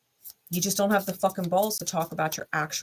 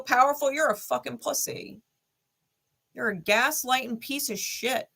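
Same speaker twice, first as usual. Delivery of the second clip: scornful tirade; 5 semitones higher than usual. Real, not acted. Berating the gaslighting ex.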